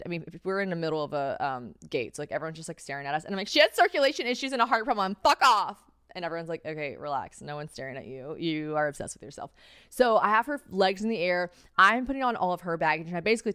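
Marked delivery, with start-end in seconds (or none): 3.5-5.8 high, loud defensive snapping; acted protective yelling; indignant outburst. Snapping at staring strangers. 6.7-9.5 low, soft unimpressed reply; understated deadpan put-down; dismissive onlooker. Retold or imitated.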